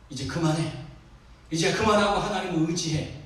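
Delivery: ordinary delivery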